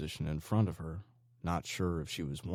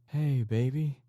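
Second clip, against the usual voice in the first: forced smile; 9 semitones higher, 6 dB louder, slower than usual. A narrator's reading. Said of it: "trying to muster a smile at her daughter".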